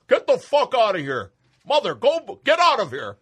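loud, high furious Santa; angry yelling. Acted. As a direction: chase her out, yelling. Santa yells at his wife.

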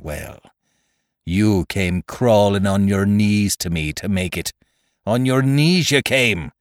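lightly voiced pirate leader, scornful and emphatic; Silver laying down the law. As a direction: make the old pirate's case with scorn.

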